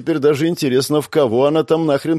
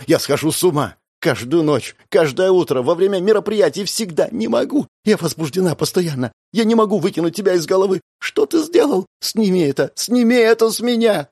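rising higher and higher into frantic begging; desperate pleading; 8 semitones higher than usual. A narrator's reading. Sophia begging Vitya to take the seal off, frantic. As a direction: beg as if the need is unbearable. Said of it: "Она тяжело дышала".

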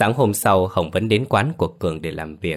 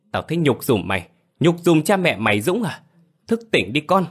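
high, scornful shouting; khinh bỉ gào mắng; 5 semitones higher than usual. Acted. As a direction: tear him down with contempt. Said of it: "Hồng gào lớn". (gào mắng khinh miệt)

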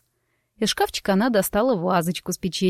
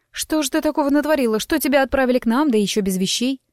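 put-on bright, higher, chirpy girl voice; a lively gossip, light and quick; chatty young woman; 5 semitones higher than usual. Narrator voices chatty Lima.

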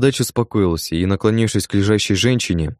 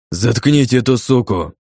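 louder, higher furious yell; 4 semitones higher, 3 dB louder than usual. Acted. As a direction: bellow to shut her up. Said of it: "заорал бородач".

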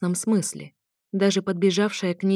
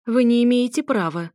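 higher, louder outraged protest; indignant cry; 6 semitones higher, 5 dB louder than usual. Acted. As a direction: shout your protest in disbelief. Mother protests loudly. (возмущённый крик матери, выше и громче)

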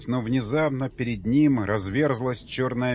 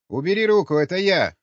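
raised, higher-pitched agitated shouting; panicked squabbling; 4 semitones higher, 5 dB louder than usual. Acted. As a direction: bicker loudly in a confused scramble. Panicked shouting match in the dark. (крикливая перебранка в панике)

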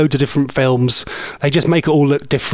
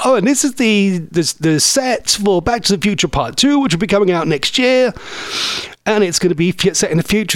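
tour guide; 5 semitones higher than usual. Retold or imitated. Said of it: "the tour guide thing was like".

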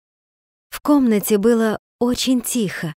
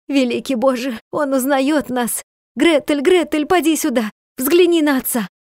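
радостный зов; 4 semitones higher than usual. Acted. Мать ликует и зовёт дочь.

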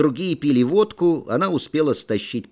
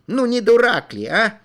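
indignant outcry; 9 semitones higher, 5 dB louder than usual. A narrator's reading. Kishkin raging at the peasant.

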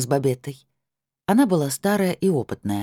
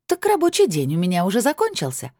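higher, gloating with held-back fury; barely held fury; 6 semitones higher than usual. A narrator's reading. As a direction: triumph pushed through the teeth. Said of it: "с еле сдерживаемым яростным торжеством".

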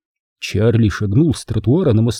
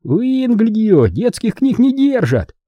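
sneering interruption; 11 semitones higher, slower than usual. Acted. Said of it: "вмешался Рыжий".

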